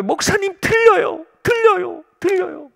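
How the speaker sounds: high, overjoyed cries of 들려요; young man crying out that he can hear; tearful joy. Retold or imitated. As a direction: imitate a weeping young man shouting his joy. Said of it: "울면서 말하는 거예요".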